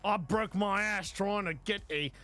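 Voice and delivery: lightly imitated New Zealand accent; Sam Neill. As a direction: grumble like a New Zealand actor in an interview. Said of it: "I could just hear him in interviews".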